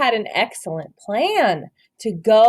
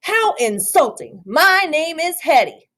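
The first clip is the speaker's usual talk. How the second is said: mock angry growl; 6 semitones higher than usual. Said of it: "glared down with the angriest growl".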